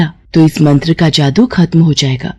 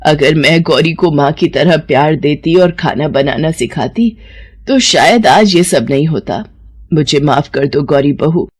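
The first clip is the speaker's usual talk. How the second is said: tearful regret; 3 semitones lower than usual. Acted. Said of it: "उसकी सास की आंखों में आंसू आ जाते हैं".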